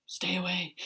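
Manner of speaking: mock-fearful whispered "stay away"; whispered warning. Workmates warning her off, in a mock whisper. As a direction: hiss it like a scared coworker. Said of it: "They were like".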